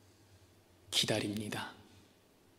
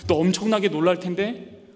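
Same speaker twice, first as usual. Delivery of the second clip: calm voice of God. Acted. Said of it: "하나님이 거기에 대답하신데".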